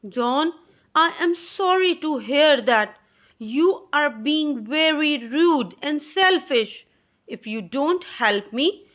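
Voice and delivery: a lightly voiced mother, scolding and let down; disappointed mother. Mother scolding her son John, lightly voiced stern mother.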